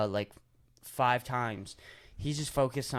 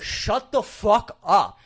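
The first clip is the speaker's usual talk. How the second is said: mock yell; 7 semitones higher, 7 dB louder, much slower than usual. Mock outrage at annoying request.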